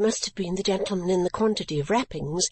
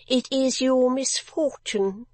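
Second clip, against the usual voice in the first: slow, lightly voiced godmother; 5 semitones higher, slower than usual. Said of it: "she returned".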